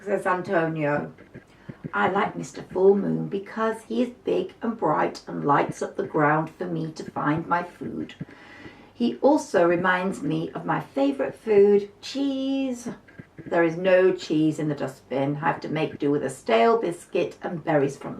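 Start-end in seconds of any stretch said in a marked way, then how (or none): 1.9-12.9 dreamy little mouse. Acted. Mouse voiced in story.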